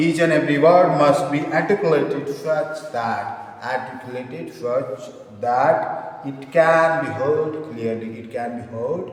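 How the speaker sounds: slow dictation, word by word. Acted. Teacher dictating notes for students to write, slow dictation. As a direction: dictate in separated chunks with long pauses.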